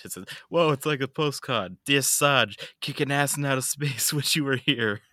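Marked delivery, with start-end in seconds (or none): 0.5-1.8 put-on Australian accent. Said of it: "Your Australian is not great". 1.8-5.0 put-on Australian accent. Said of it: "Your Australian is not great".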